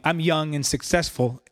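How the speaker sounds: slow, mocking air-quoted phrase; air quotes. Preacher mocks a pastor's boast, slow ironic quotes. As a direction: say it as if putting it in sarcastic quotes. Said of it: "quote, air quotes".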